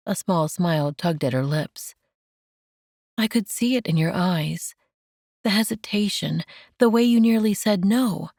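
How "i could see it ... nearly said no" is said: lightly raised, tender woman's voice; gentle Mandy. Acted. Mandy comforting Enoch, lightly raised and tender.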